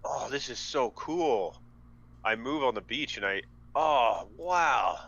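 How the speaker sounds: awed delight. Acted. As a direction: gush with mock wonder. Playing character awed by lighting.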